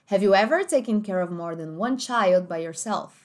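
slow, clear American English accent. Shown as a demonstration. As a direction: read it slowly like an American speaker. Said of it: "Vou falar de novo". (sotaque americano, devagar)

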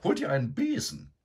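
high, loud bossy order; commanding. A narrator's reading. Sow ordering Eduard out of bed, high and commanding. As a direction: chase him up like a drill sergeant. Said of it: "befahl Begonia".

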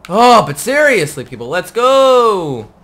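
loud, drawn-out call to hurry; impatient call. Real, not acted. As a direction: shout for them to get moving, slowing on go. Calling out to slow companions.

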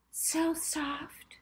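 playful high mock ad reply; whimsical ad voice. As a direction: float it up like a cheesy commercial. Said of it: "Molly replied whimsically".

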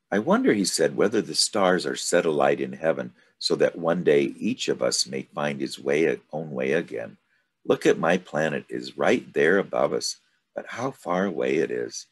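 a wistful boy gazing at the sky, lightly voiced; dreamy child's wonder, mostly easy; little prince wondering.

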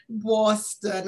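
trying a Boston accent. Shown as a demonstration. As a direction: say Boston with a Boston twang. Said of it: "can I try my Boston accent?".

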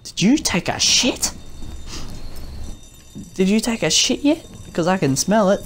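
high-pitched teasing question; mock interrogation. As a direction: needle a friend in a high, put-on voice. Teasing friend through retold question.

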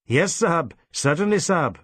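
bow and scrape to the sahib; obsequious merchant. Acted. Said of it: "bending obsequiously forward".

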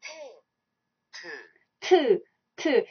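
T repeated slowly as a model; pronunciation demo. Shown as a demonstration. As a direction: say T clearly for the class to copy. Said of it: "One more time".

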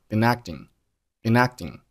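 "been" running into "acting"; linked "been acting". Shown as a demonstration. Teacher showing how "been acting" links together. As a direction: carry the n of "been" onto "acting". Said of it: "been和acting连读成了been acting".

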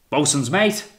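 high, loud hail; calling out. A narrator's reading. Captain summoning the boatswain's mate, loud call. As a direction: summon someone across the deck.

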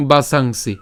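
বাসাংসি joined as one word, baa-saang-si; teacher modelling বাসাংসি; joined-up pronunciation demo. Shown as a demonstration. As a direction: say বাসাংসি together, nasal before "si". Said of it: "একসাথে উচ্চারণ করি কেমন হচ্ছে".

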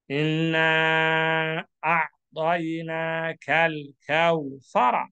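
chanted Quranic recitation, steady tone. Shown as a demonstration. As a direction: recite it as in prayer.

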